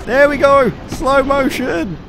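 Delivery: thrilled. Real, not acted. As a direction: call it out high, stretching the end. The collapse starts.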